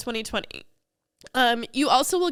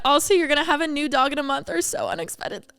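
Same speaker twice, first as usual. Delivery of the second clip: tearful; 5 semitones higher than usual. Real, not acted. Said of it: "I was not expecting to cry".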